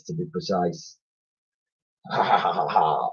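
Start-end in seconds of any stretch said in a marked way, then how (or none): 2.1-3.1 lightly voiced old man's chortle; spoken mock laugh; a hint of an old man cackling; chortling. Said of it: "Old Man Giles chortled".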